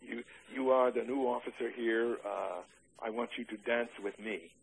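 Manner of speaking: a light, retold German accent; hint at her German accent without overdoing it; a touch of German accent in the quoted request. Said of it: "in a German accent".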